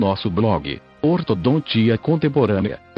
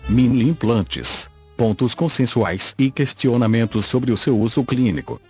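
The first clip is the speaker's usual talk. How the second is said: synthetic computer voice reading; robotic text-to-speech narration. Real, not acted. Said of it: "falo através desta voz sintetizada".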